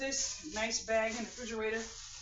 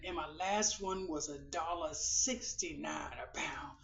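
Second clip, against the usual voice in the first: soft whisper, lower and quieter; whispered aside; 6 semitones lower, 7 dB quieter than usual. Real, not acted. Confiding an old price to viewers in a whisper. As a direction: lean in and whisper it.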